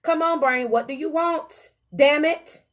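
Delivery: fed up with your own brain; growing frustration. Retold or imitated. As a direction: ask again, then snap at the end. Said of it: "it starts to say".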